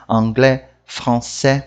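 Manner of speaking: "Anglais, français" ending on open è; French "Anglais, français" with nasal first vowels; silent final S. Shown as a demonstration. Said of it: "O S não se pronuncia".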